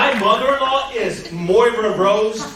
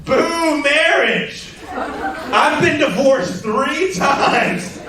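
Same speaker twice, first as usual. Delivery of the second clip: drawn-out, higher mock heckler boo; slow, higher jeer at the comedian from the crowd; heckler's boo; 6 semitones higher, much slower than usual. Heckler woman booing marriage at a show, slow and higher. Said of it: "And she goes".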